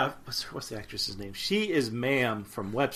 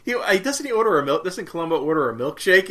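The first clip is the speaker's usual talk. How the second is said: laughing disbelief; 7 semitones higher, 8 dB louder, faster than usual. Retold or imitated. Laughing incredulous retelling.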